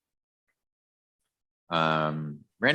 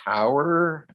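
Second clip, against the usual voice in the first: higher, louder finish to the caricature; mock self-introduction; 10 semitones higher, 5 dB louder than usual. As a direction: land it high and loud, hammed up. Ends the phony self-introduction.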